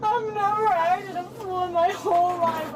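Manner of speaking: tearful, sobbing words; real crying while protesting. Real, not acted. Woman in police car cries at deputies, sobbing.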